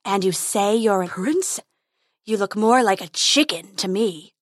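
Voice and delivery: mocking dragon voice. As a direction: sneer at him like a beast.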